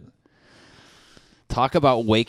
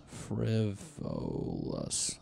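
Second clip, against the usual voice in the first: "Frivolous" very slow, each syllable stretched, softer; sounding out a word; 8 dB quieter, much slower than usual. Shown as a demonstration. Mock contestant asked to spell the word, slowly drawing out "Frivolous". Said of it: "spell frivolous".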